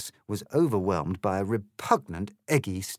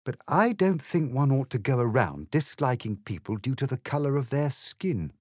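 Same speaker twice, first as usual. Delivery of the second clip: grave reproof; 4 semitones higher than usual. Acted. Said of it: "in a tone of grave reproof".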